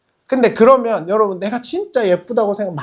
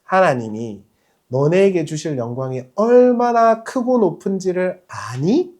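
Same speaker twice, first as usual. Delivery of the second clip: ordinary delivery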